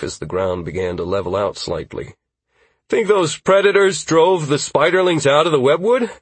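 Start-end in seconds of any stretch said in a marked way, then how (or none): 2.9-6.1 character voice. Acted. Character question, different voice.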